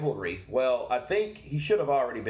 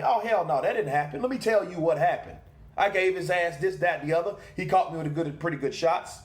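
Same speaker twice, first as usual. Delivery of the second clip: mock indignant reply; 5 semitones higher than usual. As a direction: play the wronged fighter setting the record straight. Voicing Miller's ideal angry reply.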